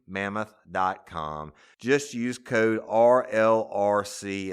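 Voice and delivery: slow spelled-out promo code read. Acted. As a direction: read the URL carefully like a sponsor spot.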